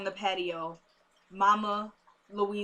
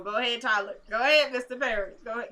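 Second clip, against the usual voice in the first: louder, lifted hype-up call; cheering him on; 3 semitones higher, 5 dB louder, faster than usual. Pretend. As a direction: cheer on a favorite uncle from afar. Cheering on absent Tyler Perry.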